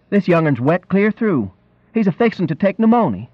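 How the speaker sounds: concerned countrywoman voice; fussing country woman. A narrator's reading. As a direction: fret over a soaked child like a country woman.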